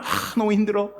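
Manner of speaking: exasperated grumbling; a lightly acted, whiny complaint; complaining. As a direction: play Martha fed up while cooking. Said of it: "일을 하면서 불평이 생길 것입니다".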